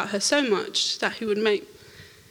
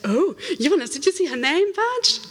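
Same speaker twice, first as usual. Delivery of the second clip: excited; 7 semitones higher than usual. Retold or imitated. Excited at seeing the name badge.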